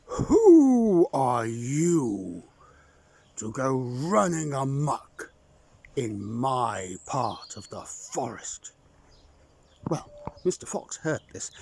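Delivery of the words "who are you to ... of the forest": slow, louder booming call; slow booming forest voice. Acted. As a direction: boom it out from the hollow tree. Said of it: "in a booming voice called out".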